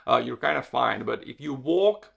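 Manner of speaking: usual speaking voice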